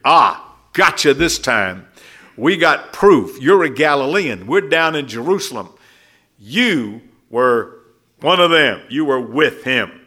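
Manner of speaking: lightly voiced accuser pinning Peter down; accusing bystander. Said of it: "that's the kind of thing that happened here".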